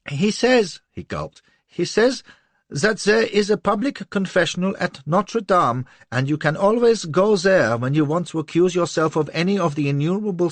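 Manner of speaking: high, tearful, aggrieved pleading; near tears. A narrator's reading. Little man on the verge of tears before Lola, high and tearful. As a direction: whine to her close to crying. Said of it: "on the verge of tears".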